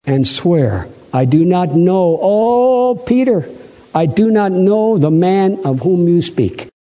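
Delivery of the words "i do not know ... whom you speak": mock cursing denial. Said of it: "he began to curse and swear".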